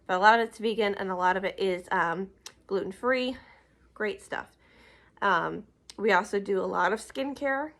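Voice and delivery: winded, talking through short breaths; out of breath, can't breathe through the nose. Real, not acted. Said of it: "I'm out of breath".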